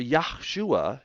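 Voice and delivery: Yahshua with an emphatic "yah"; claimed pronunciation. Shown as a demonstration. Teacher quoting what some people claim, Yahshua with a marked "yah". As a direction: lean on "yah" at the start of Yahshua. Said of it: "as some people claim".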